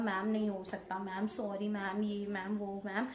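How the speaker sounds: softly begging, hands folded in apology; retold pleading. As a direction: plead quietly with the teacher, a little desperate. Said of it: "बिल्कुल मैंने हाथ वाथ सब जोड़ लिए".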